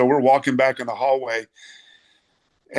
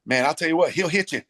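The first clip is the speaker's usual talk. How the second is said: lightly imitated coach, a bit higher at the end; Kent Bechtel; 4 semitones higher than usual. Coach sizing up a hard-hitting player, playful impression. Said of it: "my favorite Kent Bechtel was".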